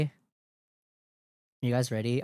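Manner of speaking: very slow, stretched-out question; drawn-out hype call. Acted. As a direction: drag every word out teasingly.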